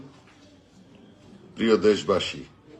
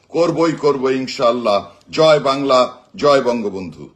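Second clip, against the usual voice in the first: raised, rallying voice to a crowd; rousing rally speech with slogans; booming rousing general speech; 3 semitones higher than usual. Acted. Rallying political speech, live.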